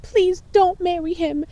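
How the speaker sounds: high, slow mock begging; pleading kid. Kid begging a crush not to marry, mock-pleading. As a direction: imitate a lovesick child's drawn-out plea.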